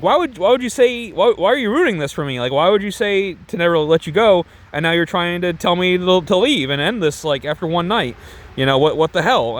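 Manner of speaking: high-pitched mock freak-out, easing down. Girl confronting one-night lover who wants out, imitated freak-out. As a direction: imitate her upset protest, starting high. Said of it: "freaking out".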